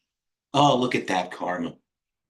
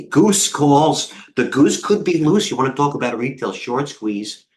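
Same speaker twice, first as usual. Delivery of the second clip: excited hype; 5 semitones higher, 4 dB louder, slower than usual. Real, not acted. Hyping a stock squeeze.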